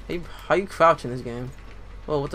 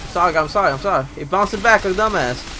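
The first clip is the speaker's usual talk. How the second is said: tag; 4 semitones higher, 6 dB louder, faster than usual. Real, not acted. Frantic apology in combat.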